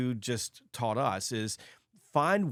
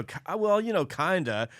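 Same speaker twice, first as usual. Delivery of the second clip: hesitant hedging; 6 semitones higher than usual. Retold or imitated. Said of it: "Like you go, you know".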